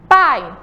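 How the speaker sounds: "Pai" with the A sounded loud and full, the I faint; teacher repeats "Pai" to show the strong vowel; stressed A in pai. Shown as a demonstration. Teacher to pupils, stressing the A. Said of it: "o som mais forte é da vogal A".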